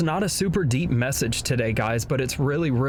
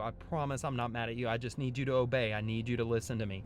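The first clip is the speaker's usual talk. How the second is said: soft and gentle, no anger; reassuring father; 4 semitones lower, 6 dB quieter than usual. Retold or imitated. Father kneeling to tell his son he isn't mad, softly. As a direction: reassure a worried little boy.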